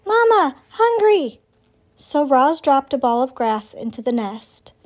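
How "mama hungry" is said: high squeaky chick voice; peeping gosling. A narrator's reading. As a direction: peep it like a hungry baby bird. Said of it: "Bright Bill started peeping".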